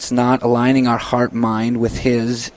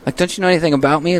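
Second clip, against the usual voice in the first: incredulous donor; 4 semitones higher than usual. Retold or imitated. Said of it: "they may look at you like".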